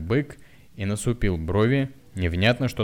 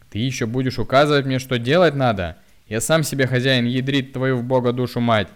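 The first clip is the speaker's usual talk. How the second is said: loud, higher furious swearing; angry cursing; 5 semitones higher, 7 dB louder than usual. A narrator's reading. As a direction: hurl the curse back at her. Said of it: "со злостью выругался он". (злобная ругань, громко)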